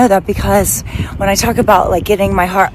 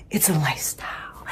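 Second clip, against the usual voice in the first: soft confiding tagline; 4 semitones lower, 11 dB quieter than usual. Acted. Showing off slogan t-shirt.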